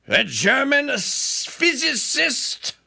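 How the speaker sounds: slow, high, drawn-out announcement; theatrical, slow-motion delivery; hammed-up emphasis. Hammed-up emphasis on her title.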